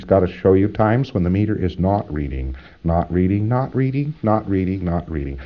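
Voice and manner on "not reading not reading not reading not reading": repeated calls, getting softer; coach calling no reads. Shown as a demonstration. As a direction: call each no read, fading out. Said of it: "give me a no read".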